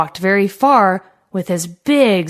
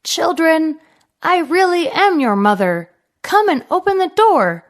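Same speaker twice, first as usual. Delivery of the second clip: higher put-on mother voice from the wolf; wolf faking mother; 6 semitones higher than usual. A narrator's reading. Wolf begs the kids to open, lightly faked mother voice. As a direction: sweet-talk them, lightly disguised. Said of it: "holding his throat".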